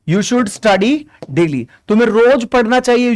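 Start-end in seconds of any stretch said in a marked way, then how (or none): 0.1-1.7 very slow, word by word; slow dictation. Shown as a demonstration. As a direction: read it out slowly so students can write. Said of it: "teacher dictates translated sentence". (धीरे-धीरे लिखवाते हुए)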